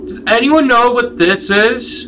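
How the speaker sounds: high, slow, drawn-out question; puzzled appeal. Real, not acted. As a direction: stretch the question out, high and baffled. Repeats the question slowly.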